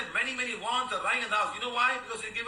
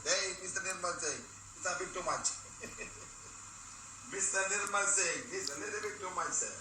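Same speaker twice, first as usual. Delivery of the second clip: laughing teasing; 5 dB quieter than usual. Real, not acted.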